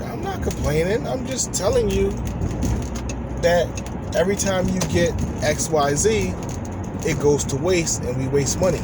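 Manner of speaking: lightly voiced defensive wife; wife defending herself. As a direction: mimic her insisting she's right. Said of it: "she was like".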